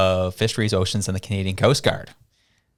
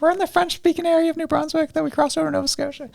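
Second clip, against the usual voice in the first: laughing narration; faster than usual. Real, not acted. Laughing narration, far timbre.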